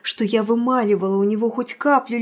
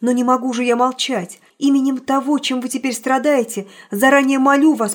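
resolute declaration; 2 semitones higher, 5 dB louder than usual. Acted. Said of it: "сказал я решительно".

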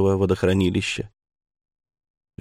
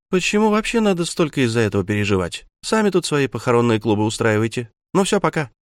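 scornful; 3 semitones higher, faster than usual. Acted. Sister scoffs and leaves.

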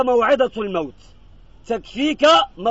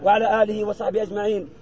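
closing prayer. Acted. Imam ending the graveside prayer with praise, softened closing recitation. Closes the supplication.

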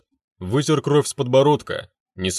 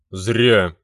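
demon's growl; 3 semitones lower than usual. A narrator's reading. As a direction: snarl it back at him. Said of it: "прорычал демон".

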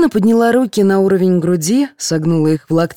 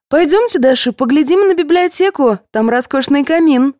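high, welcoming nurse voice; high, inviting hostess; 10 semitones higher, 3 dB louder than usual. A narrator's reading. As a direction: lead the guest on brightly.

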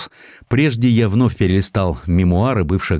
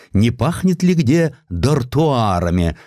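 plain reading voice

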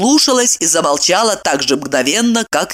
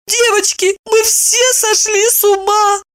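horrified. A narrator's reading. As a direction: gasp it out in horror. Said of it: "ужаснулась Евдокия".

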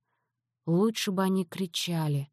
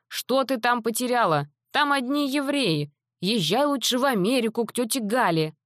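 put-on higher, fussing old Odessa grandmother; grandmother scolding; 5 semitones higher than usual. Grandmother tries to talk granddaughter out of Israel, fussing higher. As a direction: coax the girl like a fretful grandmother, higher.

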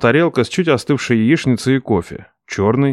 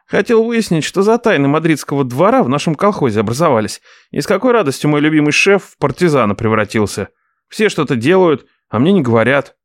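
higher complaining nephew; 4 semitones higher than usual. Acted. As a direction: grumble about secrets.

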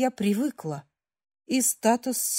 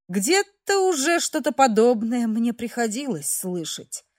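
ordinary delivery, nothing marked

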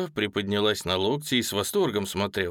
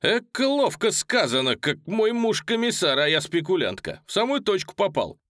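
high, louder gleeful praise; delighted exclaim; 8 semitones higher, 3 dB louder than usual. Acted. Golub cheering the ditty, high and gleeful. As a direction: cheer the line on. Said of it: "прокричал Голубь".

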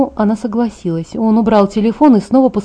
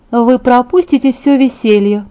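higher-pitched displeased grumble; grumbling; 4 semitones higher, 4 dB louder than usual. A narrator's reading. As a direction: grumble it in a lifted character voice. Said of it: "проворчала она".

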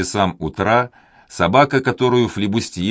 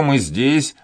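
громкий зов, подъём на «мы»; кричит «мы» выше остального; ободряющий крик; 6 semitones higher than usual. A narrator's reading. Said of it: "закричал Данник". (кричит собаке: «мы здесь»)

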